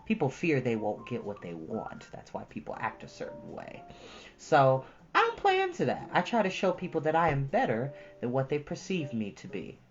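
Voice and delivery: usual speaking voice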